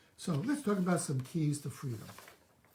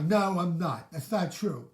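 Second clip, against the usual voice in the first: denying; 6 dB louder, slower than usual. Acted. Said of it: "Do you deny?".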